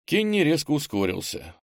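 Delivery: usual speaking voice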